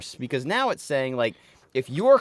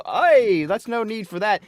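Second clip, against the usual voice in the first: mock pushback; 8 semitones higher, 6 dB louder than usual. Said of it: "And then I'll be".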